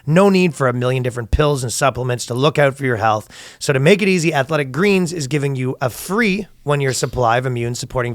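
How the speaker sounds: podcast sponsor read. Real, not acted. Host pitching a supplement to listeners, ad read. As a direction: read the sponsor copy, measured and emphatic.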